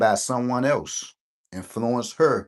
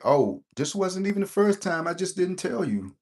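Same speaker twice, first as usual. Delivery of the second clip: much higher, breezy mock voice; mock casual reveal; 10 semitones higher than usual. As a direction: toss off the confession in a far higher put-on voice.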